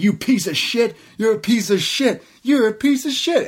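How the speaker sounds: high-pitched, climbing mock outrage; mock angry insults. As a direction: hurl it repeatedly, pitch rising each time. Acted wrestler hurling repeated insults.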